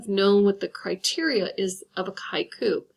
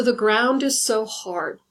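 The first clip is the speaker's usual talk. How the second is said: slow poem reading; first take, recited; reading a poem line; slower than usual. Shown as a demonstration. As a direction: read the line out slowly like a poem. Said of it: "listen along to this and just see how I've created".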